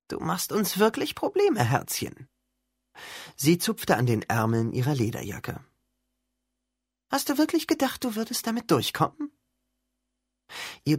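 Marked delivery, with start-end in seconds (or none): 0.1-2.3 menacing teacher. Acted. Evil teacher threatens Percy. 7.1-9.3 high, sneering menace; mocking taunt. Evil teacher taunts Percy.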